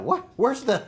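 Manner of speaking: incredulous, half-laughing questions; telling how he reacted to the short pitch, laughing in surprise; amazed disbelief. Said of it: "And I was like".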